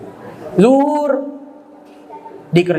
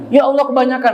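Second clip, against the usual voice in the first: mock complaint; 6 semitones higher, faster than usual. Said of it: "ya udah hujan sama Allah".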